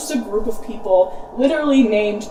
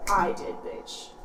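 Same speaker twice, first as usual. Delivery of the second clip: breathy mock whisper; 2 semitones lower, 5 dB quieter than usual. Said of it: "Oedipus is like".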